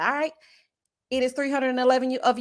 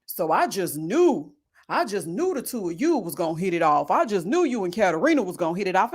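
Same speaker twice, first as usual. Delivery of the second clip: imitating Tommy; 3 semitones lower than usual. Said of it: "he goes".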